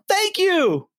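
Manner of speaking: a light thank you in a singer's style; imitating a singer. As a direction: echo the singer's thank you. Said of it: "And he goes".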